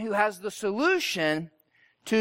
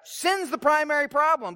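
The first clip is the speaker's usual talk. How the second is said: higher-pitched mock frustration; frustrated; 6 semitones higher than usual. Religious teachers insisting on their doctrine, frustrated. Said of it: "They're frustrated 'cause they're like".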